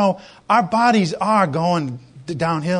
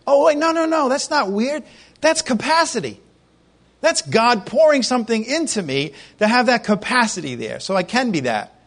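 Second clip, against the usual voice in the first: dawning realization; 5 semitones higher than usual. Pretend. Believer realizing it is capacity.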